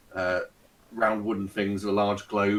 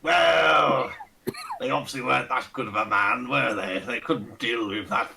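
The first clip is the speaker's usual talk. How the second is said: lightly voiced pompous old aristocrat; a hint of a Ronnie Barker toff; pompous old lord. Fat old lord greeting the party, lightly pompous and fussy. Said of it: "with the accent and everything".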